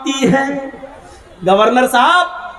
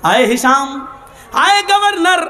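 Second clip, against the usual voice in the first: raised preaching voice; 3 semitones higher than usual. Acted. Salim addresses governor forcefully.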